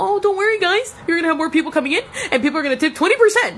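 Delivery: high, fast mock-cheerful pitch; sarcastic sing-song with a laugh; mocking corporate line. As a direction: parody the chain's empty promise. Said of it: "So no, Chili".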